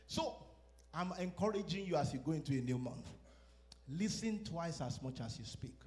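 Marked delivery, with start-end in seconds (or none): 3.9-5.8 slow emphasis. Shown as a demonstration. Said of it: "preacher stresses key line".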